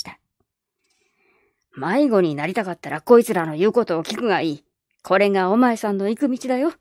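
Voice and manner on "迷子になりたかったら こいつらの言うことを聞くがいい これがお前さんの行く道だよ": a lightly voiced skeptical old man; gruff old man. Old man doubting the girl's trip, lightly gruff. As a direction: doubt her plan like a crusty grandpa.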